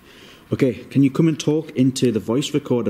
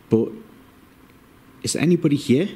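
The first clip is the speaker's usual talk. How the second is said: calling out; 6 semitones higher than usual. Real, not acted. Calling out to spirits.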